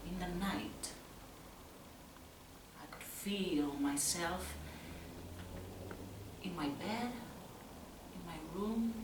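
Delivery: soft, halting, with pauses between phrases; hushed night-time recollection. Acted. Lying awake at night, listening.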